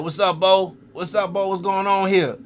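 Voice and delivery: high, loud hail to a friend; imitated calling out. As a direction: call out as the partner pulling up. Partner pulls up calling to him.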